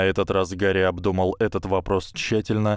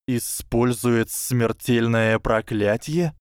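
slow, disbelieving rising question; incredulous hiss; 3 semitones higher, slower than usual. Acted. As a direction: repeat it in disbelief. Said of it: "недоверчиво прошипел Гарри".

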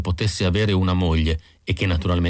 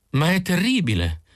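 shocked exclamation; 10 semitones higher than usual. A narrator's reading. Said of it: "esclamò la signora Pilsen".

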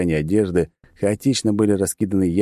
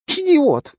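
much higher, louder furious yell; screaming; 4 dB louder than usual. Acted. The girl yelling at him once more, furious scream. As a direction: scream the insult at full pitch. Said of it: "снова заорала девушка".

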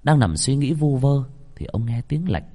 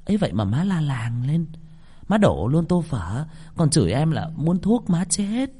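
higher, lightly voiced young wife, hushed; wife's voice; 6 semitones higher than usual. Wife whispers to husband in bed about his mother, higher voice. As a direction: confide worriedly to the husband in bed.

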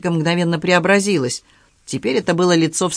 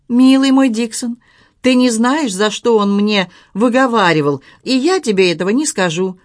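higher-pitched, spirited retort to a lecture; defiant retort; 6 semitones higher, 4 dB louder than usual. A narrator's reading. Young lady to servant Dixon about being told off, defiant retort. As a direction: answer back with a lift in pitch.

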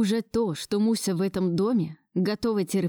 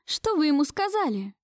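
mildly angry, higher-pitched woman; angry accusation; 8 semitones higher than usual. A narrator's reading. Marusya turning on the grandmother, angry. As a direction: throw the question out with understated anger. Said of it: "Зло кинула она в сторону бабушки".

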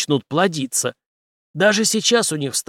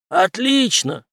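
a high, louder happy burst; joyful; 8 semitones higher, 4 dB louder, much slower than usual. Acted. Henry happily accepts the general's promise, joyful. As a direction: jump at it with joy. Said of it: "радостно подскочил Генри".

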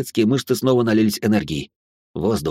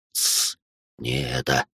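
hushed shush; 9 semitones lower, 6 dB quieter, much slower than usual. A narrator's reading. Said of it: "цыкнул хриплый".

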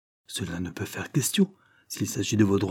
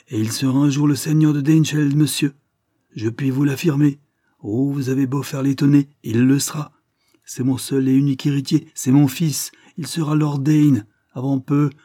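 loud, higher-pitched, emphatic proclamation; indignant declaration; 5 semitones higher, 5 dB louder than usual. A narrator's reading. Lord Dane defending his son and heir, indignant. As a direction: insist on it forcefully, voice raised.

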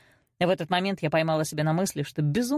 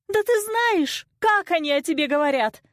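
yelling mother; 11 semitones higher, 4 dB louder than usual. A narrator's reading. Mother confronts daughter over neighbours' gossip, yelling. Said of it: "завопила мама".

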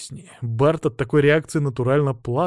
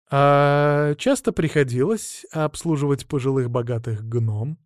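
snide. Acted. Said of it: "ехидно спросила Маша".

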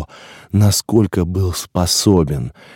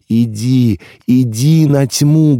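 worried urging; 4 semitones higher, 3 dB louder, slower than usual. A narrator's reading. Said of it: "Голос принимающего был очень озабочен".

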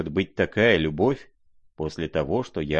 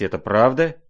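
alarmed cry; 4 semitones higher, 6 dB louder than usual. A narrator's reading. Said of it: "вскричал князь в тревоге".

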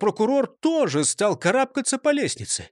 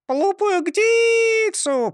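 parrot chirp; 4 dB louder, much slower than usual. A narrator's reading. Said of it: "прощебетала Клара из темноты".

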